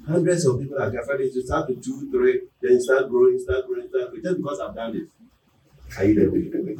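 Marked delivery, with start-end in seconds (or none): none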